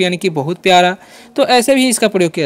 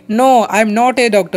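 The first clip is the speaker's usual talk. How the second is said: slow example sentence; much slower than usual. Shown as a demonstration. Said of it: "ठीक है".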